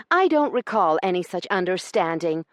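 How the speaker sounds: high, loud, defiant lady's retort; lashing back. Acted. Io defying Corbin in the cab, lashing back. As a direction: throw it back at him. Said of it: "Io lashed back".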